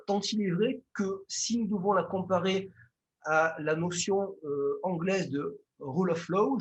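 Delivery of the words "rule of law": English phrase spoken with a strong Marseille accent. Real, not acted. Lecturer apologizing to students for his English, Marseille accent. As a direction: rule of law in a southern French accent, each word said the French way. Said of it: "je m'excuse pour mon accent anglais, très, très marseillais".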